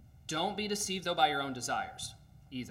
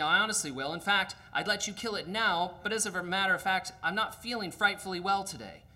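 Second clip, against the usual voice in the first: higher, louder, hurried and nervous; excuse-making ghost; 6 semitones higher, 4 dB louder than usual. Acted. Ghost makes nervous excuses to the angel. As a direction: talk fast to wriggle out of it.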